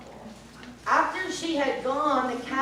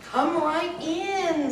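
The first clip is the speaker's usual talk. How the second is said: witch voice; 5 semitones higher, slower than usual. Acted. Witch lures Sasha inside.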